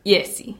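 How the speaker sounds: "Jesse" said with a Y, as YES-ee; "Jesse" with initial Y sound, ending in ee; Dutch name pronunciation. Shown as a demonstration. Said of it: "you pronounce your name".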